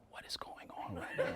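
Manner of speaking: breathy laugh through the words; laughing disbelief. Retold or imitated. A friend in the front row reacting to the fart speech, laughing in disbelief.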